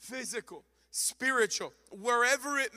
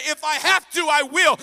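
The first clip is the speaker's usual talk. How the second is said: begrudging reply; 7 semitones higher, 14 dB louder than usual. Pretend. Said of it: "He does not look at you and say".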